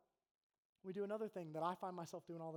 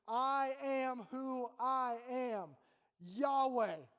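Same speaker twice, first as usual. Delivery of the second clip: solemn voice of God; 4 semitones higher, 7 dB louder, much slower than usual. Acted. Voicing God's self-naming in Exodus.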